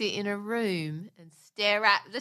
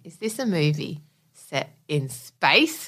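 incredulous; 7 semitones lower than usual. Real, not acted. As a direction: hang on, really?. Incredulous about another space movie.

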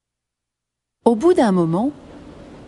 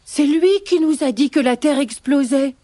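higher-pitched bunny accusation; accusing rabbits; 5 semitones higher than usual. Acted. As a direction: point the blame in a raised rabbit voice. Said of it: "ils montrent Petit Lapin et disent".

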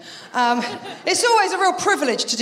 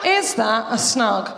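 mock doctor musing; 5 semitones lower, slower than usual. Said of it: "she's looking down there".

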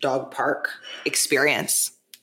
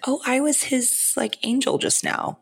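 much higher, wondering; amazed realization; 10 semitones higher than usual. Retold or imitated. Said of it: "I was like".

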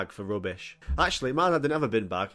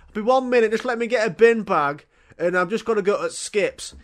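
loud, high mock dad voice, dragging it out; stalling dad; 9 semitones higher, 7 dB louder than usual. Dad stalling his eager son, mock voice. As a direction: play the dad who keeps the kid waiting.

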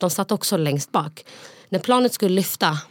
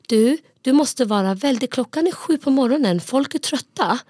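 scolding stranger; 7 semitones higher than usual. Retold or imitated. Stranger scolding her child.

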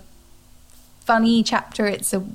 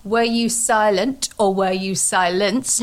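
mock Oprah question; slower than usual. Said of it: "If Oprah had asked me back then".

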